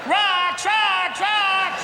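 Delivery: high, loud, urgent repeated cry; panicked warning shout. Retold or imitated. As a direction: shout it like a lookout spotting danger.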